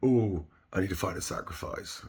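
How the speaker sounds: usual speaking voice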